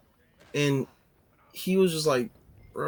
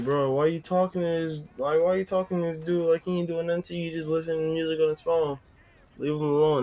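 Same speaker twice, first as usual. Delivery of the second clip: higher, fast mock girl voice telling a guy off; imitating a sassy girl, fast and higher; girls scolding him; 4 semitones higher than usual. Girls defend narrator, voiced quote.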